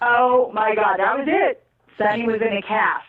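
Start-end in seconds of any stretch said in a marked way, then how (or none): 0.0-1.6 shocked realization. Retold or imitated. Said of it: "I'm like".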